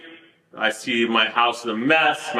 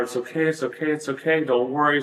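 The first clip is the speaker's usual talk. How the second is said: reassuring. Retold or imitated. Reassuring freaking-out daughter in retelling.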